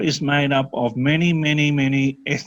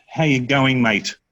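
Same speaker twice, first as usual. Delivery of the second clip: quick Australian greeting. Shown as a demonstration. Tutor replacing the American greeting with Australian, quick Aussie accent. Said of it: "we say it quite quickly".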